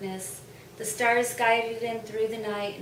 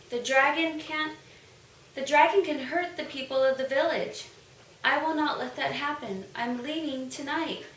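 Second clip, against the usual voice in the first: put-on child's voice; 4 semitones higher than usual. Bao Bao voiced in story.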